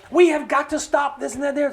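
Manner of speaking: a hint of a yelling representative; mock yelling. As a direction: imitate a riled-up congressman, half shouting. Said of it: "So there's yelling and screaming".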